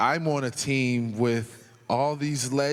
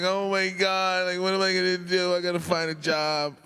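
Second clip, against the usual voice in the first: mock panic; 6 semitones higher than usual. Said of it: "I'm crying".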